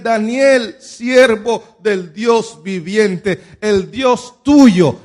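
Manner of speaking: slow, drawn-out mournful call; sad call. Retold or imitated. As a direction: call to Daniel slowly, grieving. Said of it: "con una voz triste". (llamado lento y triste)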